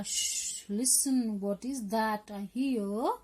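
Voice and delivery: shush, then a slow question rising at the end; lightly acted hush and wondering question; hushing listener. Someone in the poem hears galloping, hushing listener. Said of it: "इसमें से कोई बोला".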